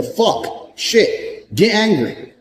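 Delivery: a high, breathy burst of frustration at yourself; angry self-talk. Pretend. A man psyching himself up, voicing angry self-talk. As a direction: spit it out high, like a man fed up with his own life. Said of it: "You need to sit there and go".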